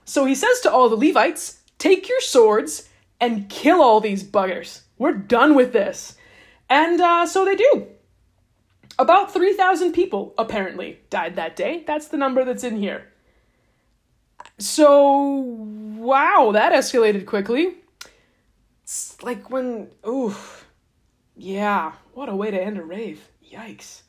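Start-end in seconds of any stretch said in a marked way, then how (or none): 1.8-6.1 slow, deliberate mock command; stern order. Moses ordering the Levites to kill, slow mock sternness. 23.5-24.0 barely voiced, much softer; hushed yikes. Real, not acted. Host reacting to the three thousand dead, hushed.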